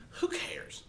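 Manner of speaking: whispered dismissive aside. Real, not acted. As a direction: breathe it out, shrugging.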